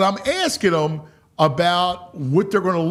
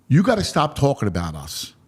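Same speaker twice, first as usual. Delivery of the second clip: low, even telling-off; chastising; 4 semitones lower than usual. Retold or imitated. Ballplayer telling the host to stop hyping them, chastising. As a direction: scold lightly in a lowered voice. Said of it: "He was kinda chastising me".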